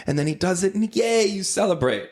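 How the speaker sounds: sing-song high-pitched pitch of the scene; casting director pitch. Retold or imitated. Casting director pitching the potty scene to actors, mock sing-song. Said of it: "and they're like".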